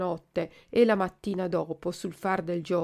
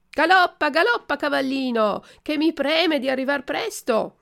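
high, loud gleeful cry; joyful shout; 7 semitones higher, 5 dB louder than usual. Acted. Puppet riding the pigeon, shouting happily to gallop. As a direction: urge the horse on in delight. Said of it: "gridò tutto contento".

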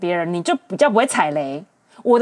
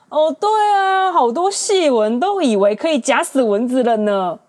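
lightly mocking, high-pitched start on 哦; mock sarcastic reply; 3 semitones higher than usual. A guy mocking the girl's wrinkles, with a mild sneer.

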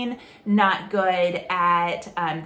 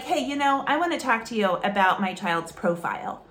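stiff, formal and a bit combative; confrontational; faster than usual. Shown as a demonstration. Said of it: "You sound so formal, you sound kind of confrontational".

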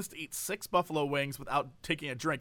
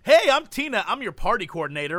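mock chirpy greeting; 2 semitones higher, 5 dB louder than usual. Party coordinator introduces herself to the table, mock peppy. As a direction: launch into an overeager staff greeting.

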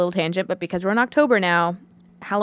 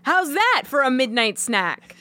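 taunting tough guy; 5 semitones higher than usual. Pretend. Acted staff taunting customer.

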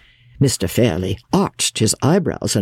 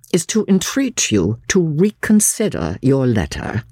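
higher, lightly acted formal entreaty; earnest lawyer; 6 semitones higher than usual. Lawyer entreating the uncle for his niece, mildly urgent. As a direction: press the case firmly but courteously.

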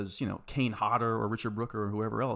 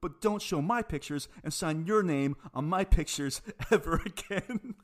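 retold scolding; 5 semitones higher than usual. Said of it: "I said".

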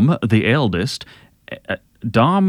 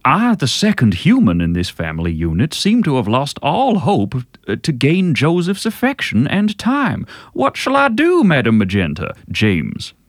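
put-on generic Southern accent. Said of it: "generic Southern accent".

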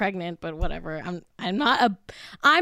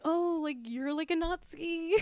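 mock Ivanka talk; 7 semitones higher, 7 dB quieter than usual.

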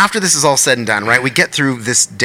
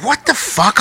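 retold bewilderment; 8 semitones higher, 3 dB quieter, slower than usual. His own retold bewildered reaction.

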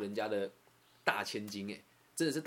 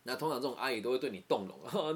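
ordinary talk

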